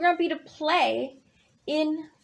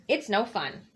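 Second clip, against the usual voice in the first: low, sulky bird voice; grumpy bird; 7 semitones lower, faster than usual. Acted. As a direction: answer like a sulking bird.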